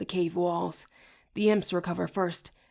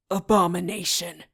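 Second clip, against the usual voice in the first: crying out; 4 dB louder than usual. A narrator's reading. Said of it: "Raz cries".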